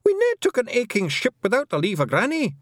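high-pitched Scots protest; shrieking protest. A narrator's reading. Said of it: "shrieked Rob Anybody".

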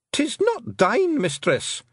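high shrieking Scottish pixie, slow; shrieking Feegle. Acted. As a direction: shriek it out in protest. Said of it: "shrieked Rob Anybody".

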